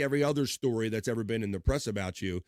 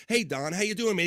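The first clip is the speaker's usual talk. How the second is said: friendly crooner greeting; 7 semitones higher, 3 dB louder than usual. Retold or imitated. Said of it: "he goes".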